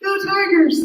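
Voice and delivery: high raspy Cajun cheer; Coach O cheer. Retold or imitated. Host shows guest Coach O's raspy cheer. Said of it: "unique way of saying".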